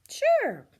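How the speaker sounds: high, loud quick yes; eager teenager. Acted. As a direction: agree happily. Teenager agrees.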